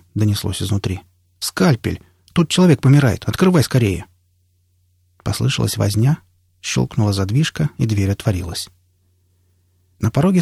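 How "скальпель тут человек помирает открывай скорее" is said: urgent call for the door to open. Acted. Friend calls to the medic for a dying man, urgent. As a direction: call out with life-or-death urgency.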